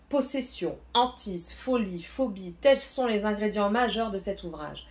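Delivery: lightly dramatized back-cover reading; synopsis read aloud. Acted. Booktuber reads the synopsis to her viewers, lightly dramatic. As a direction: read the blurb with a bit of suspense.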